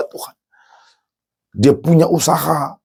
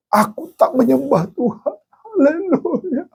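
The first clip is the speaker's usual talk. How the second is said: Job's high praise; 11 semitones higher than usual. Acted. Job praising God after loss.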